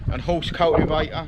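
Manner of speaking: dentures out, words slurred; toothless. Real, not acted. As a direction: toothless mumble. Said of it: "I haven't got my teeth in today".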